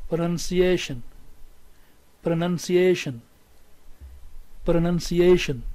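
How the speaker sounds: "pronunciation" with the main beat on "ation"; stress on -ation. Shown as a demonstration. Teacher repeats the word for students, primary stress on -ation. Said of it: "So we'll pronounce it".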